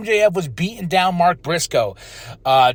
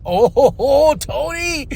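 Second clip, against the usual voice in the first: high-pitched delighted "oh"; delighted reaction; 8 semitones higher, much slower than usual. Retold or imitated. Host reacting to Toni's challenge, high and delighted. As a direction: swoon over it with a laugh, voice up high.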